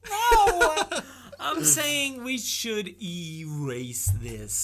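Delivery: high squeal then laughing words. Real, not acted. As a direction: laugh through the correction. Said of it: "stop calling me racist".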